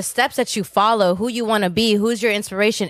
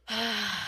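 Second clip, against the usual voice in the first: long, soft weary sigh; soft exasperated sigh; big sigh; 12 dB quieter than usual. Retold or imitated. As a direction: breathe out heavily like a tired dad. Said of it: "He'd start off with a big sigh".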